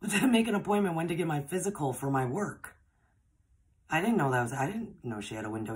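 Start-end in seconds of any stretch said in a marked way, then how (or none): 0.0-2.8 laughing through the words, amused. Real, not acted. Telling viewers the call was only about a physical, laughing. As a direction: let the laugh carry the line in disbelief.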